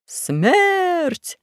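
high shouted death cry; shouting notables. Acted. Notables demanding execution, high shout. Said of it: "закричали значительные лица".

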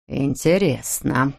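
lightly voiced threatening father; menacing drawl. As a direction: let the word hang like a threat. Father's menacing slow remark.

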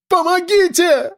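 high, slow frightened scream; cry for help. A narrator's reading. Hostage woman screaming for help from the window. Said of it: "вскрикнула Виталина Сергеевна".

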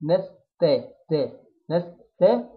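نستا with a thin ت as in تاج; taa as in taj. Shown as a demonstration. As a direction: say تا in نستا light and fronted. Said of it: "زي كلمة التاء في كلمة تاج". (تاء نستا مرققة مثل تاج)

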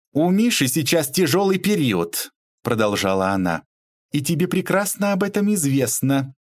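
high-pitched lady's voice; lady pleading her case. A narrator's reading. Visitor reproaching Bobrov about Misha, high-pitched pleading. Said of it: "с пафосом произнесла дама".

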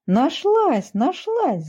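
excited little voices calling out; joyful shout. A narrator's reading. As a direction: cheer the good news like little friends. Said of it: "закричали Фью и Мармеладик".

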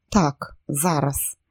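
slow, cold deliberate resolve; cold inner voice. Acted. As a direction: let the cold voice decide, slowly. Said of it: "холодний голос у мозку".

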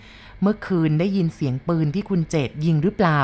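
slow, hushed and urgent; a servant woman hurrying to share gossip, hushed; hushed breathless servant. Acted. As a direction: lean in and ask it under your breath. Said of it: "พูดกระซิบกระซาบ กระหืดกระหอบ".

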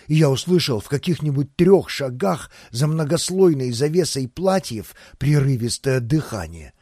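usual speaking voice

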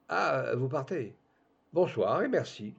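ordinary delivery

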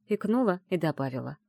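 usual speaking voice

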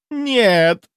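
high loud anguished cry; sobbing cry. A narrator's reading. Zaitsev crying out as he is torn from the parasite. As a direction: cry out in loss. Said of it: "зарыдал он".

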